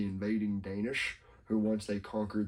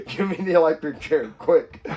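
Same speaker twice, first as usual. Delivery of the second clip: laughing loudly, pitched up; 5 semitones higher, 6 dB louder than usual. Real, not acted. Laughing at own joke about the electric chair. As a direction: crack up on the punchline.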